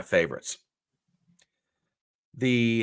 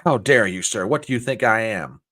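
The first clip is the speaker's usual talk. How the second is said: louder, offended retort; indignant woman; 6 dB louder than usual. Retold or imitated. Woman offended by the joke man, loud indignant retort. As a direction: snap back, insulted. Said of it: "very indignant and said".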